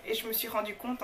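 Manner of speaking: ordinary talk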